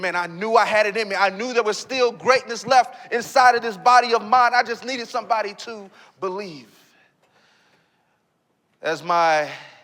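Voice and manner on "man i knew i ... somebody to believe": normal talking voice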